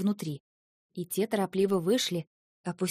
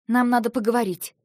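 curt demand; 3 semitones higher, 5 dB louder than usual. Acted. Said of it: "бросила я".

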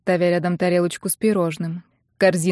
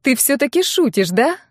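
hopeful; 5 semitones higher than usual. A narrator's reading. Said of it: "спросила я с надеждой".

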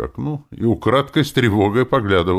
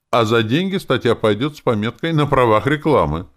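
a touch of cheek, louder at the end; cheeky; 7 semitones higher, 6 dB louder than usual. A narrator's reading. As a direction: answer pertly, defiant. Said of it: "ответила она дерзко". (дерзкий ответ, чуть громче)

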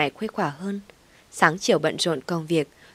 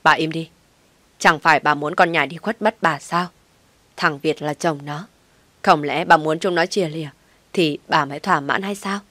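loud stern rebuke; furious father silencing her; angry; 3 dB louder than usual. Acted. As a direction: lash out at his wife, loud. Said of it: "thấy ông giận dữ".

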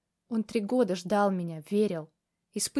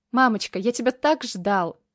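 put-on child's joy; 3 semitones higher, 6 dB louder than usual. Child voiced greeting mother.

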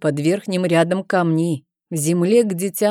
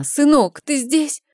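mother calling out; 7 semitones higher than usual. A narrator's reading. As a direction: call out across the stones, hoping he hears. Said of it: "позвала она".

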